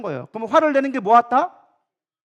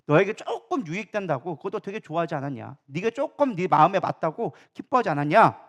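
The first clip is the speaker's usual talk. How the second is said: lightly voiced God, a bit lower; a hint of divine rebuke; God reproving; 4 semitones lower than usual. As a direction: reason with him in a low, measured reproof. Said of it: "여호와 하나님이 뭐라고 얘기합니까".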